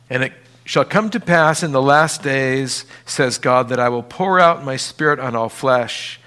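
solemn Bible reading, words weighed out; scripture reading. Acted. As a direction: proclaim the verses from the pulpit. Reads Joel passage aloud.

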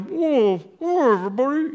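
high, loud calming whoa; hammed-up calming call; Jesus calming the crowd. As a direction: settle down a startled crowd. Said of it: "He's just down there going".

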